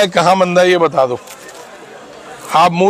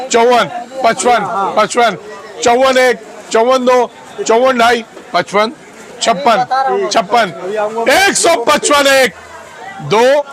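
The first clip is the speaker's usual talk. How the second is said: auctioneer; slower than usual. Acted. Auctioneer calling bids.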